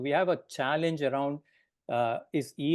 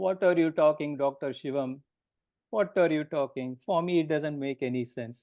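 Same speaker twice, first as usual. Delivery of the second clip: put-on professor voice with a hint of boom. Recalling how an anatomy teacher would have answered this question, imitating his booming voice. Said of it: "in his booming voice".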